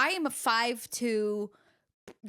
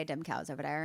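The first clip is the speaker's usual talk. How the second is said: put-on Newfoundland accent; 5 semitones lower, 4 dB quieter than usual. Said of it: "talking in my Newfoundland accent".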